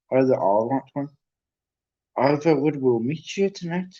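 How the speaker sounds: a hint of a professor's voice; McGonagall. Professor's note to a pupil about a parcel, lightly put-on voice. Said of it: "so I'll read it in her voice".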